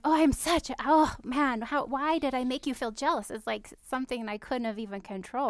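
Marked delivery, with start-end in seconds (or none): 0.0-3.3 self-blaming fluster. Retold or imitated. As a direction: fret over upsetting him. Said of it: "I'll be like".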